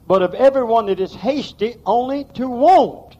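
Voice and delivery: slow deliberate reading, leaning on want; read slowly. Shown as a demonstration. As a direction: drag out only to want. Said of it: "You got to read that slow".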